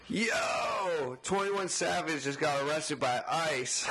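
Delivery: called out high with a drawn-out Yo; friend's excited shout. Retold or imitated. Friend walking out to the garage with breaking news, excited shout. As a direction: holler the news as you burst in. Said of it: "walks out and goes".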